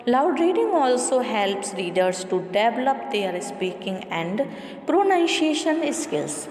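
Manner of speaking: measured, deliberate textbook read-aloud; steady classroom reading voice. Acted. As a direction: read the passage out evenly for the class. Reads textbook passage aloud.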